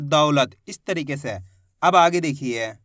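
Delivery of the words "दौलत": दौलत with weight on the first syllable; stress on दौ. Shown as a demonstration. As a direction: lean on the "au" of दौ in दौलत. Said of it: "जोर लगाएंगे दा के अंदर".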